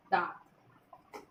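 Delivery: दांत said slowly with a nasal आं; nasal vowel shown. Shown as a demonstration. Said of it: "ये आपका सही है चंद्र बिंदु". (दांत को धीरे, नाक से आं बोलकर)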